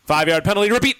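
mock referee calling a penalty over the mic; exaggerated ref call. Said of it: "very exaggerated".

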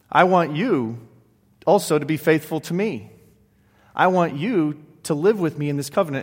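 a hint of a solemn God making a promise; God's voice, lightly voiced. Preacher voicing God's covenant to his people, lightly done, with a mild solemn slowdown. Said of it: "it sounded something like this".

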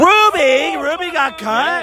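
high, dismayed outcry; outraged surprise. Real, not acted. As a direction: cry out in disbelief at the news. Outcry at a song being cut.

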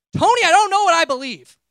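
loud, exasperated shout at a friend; frustrated yell. Retold or imitated. Busy and fed up, yelling at Tony who keeps asking about God. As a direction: blurt it out at full volume, at the end of your rope. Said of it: "and I yelled".

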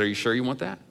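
softly retold gentle question. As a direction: ask softly, with a gentle lift at the end. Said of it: "very quickly and very gently".

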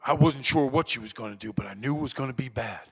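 lightly voiced odd sponsor; Bob Timmons. Sponsor telling Daniel about his mother, lightly voiced odd man. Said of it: "Bob looked at me and he said".

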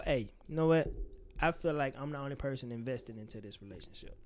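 level, even and unaccusing; calm honest approach. Shown as a demonstration. Showing how to tell a friend you feel alone in it, calmly. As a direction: lay the feeling out gently. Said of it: "Those are two different conversations".

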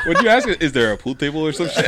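mock friend voice. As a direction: ham up his confused question. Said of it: "He's like".

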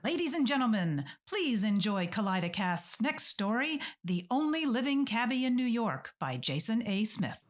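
announcer intro. Acted. Host announces the next story.

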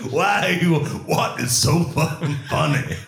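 high indignant outburst; mock outrage. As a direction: play it offended at the laughter.

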